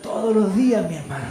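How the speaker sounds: ordinary talk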